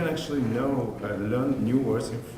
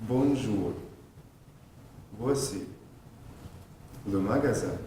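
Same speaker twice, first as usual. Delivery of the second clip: each word said separately with pauses; staccato. Shown as a demonstration. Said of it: "pronounce every word separately".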